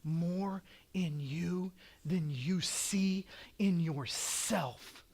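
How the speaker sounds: soft, slow whisper; God's voice. Retold or imitated. God speaking to Joshua, soft slow whisper. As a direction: whisper it tenderly, slowly. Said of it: "God is saying".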